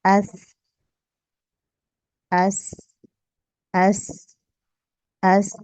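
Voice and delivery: एस repeated crisp, no whistle; letter sound demo. Shown as a demonstration. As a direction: keep एस without hiss. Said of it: "इसमें सीटी नहीं है". (एस बिना सीटी के)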